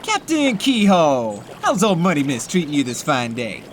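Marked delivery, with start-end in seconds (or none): 0.0-1.4 hearty call-out. Acted. Greeting a boat captain warmly.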